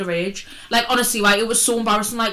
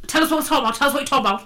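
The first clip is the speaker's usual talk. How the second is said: mock nagging; 5 semitones higher, much faster than usual. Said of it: "and you go".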